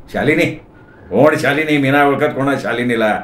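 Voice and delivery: lightly put-on rasp; imitating a raspy voice. Man pretending not to know Shalini, lightly imitated rasp. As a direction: mildly mimic the caller's rough voice. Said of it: "मी खरखरीत आवाजाची नक्कल करत".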